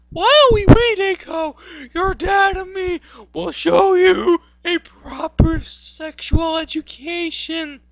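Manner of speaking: high-pitched put-on motherly voice; Wonder Woman. Reader voices mother talking to her children, high put-on voice.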